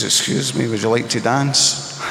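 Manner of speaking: a light hint of a suave Scottish charmer asking for a dance; Sean Connery voice. Drunk young man asking the little blonde to dance, lightly voiced Sean Connery. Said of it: "in my best Sean Connery voice".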